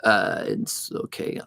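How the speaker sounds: breathy whisper; barely voiced, hushed. Real, not acted. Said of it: "I can talk".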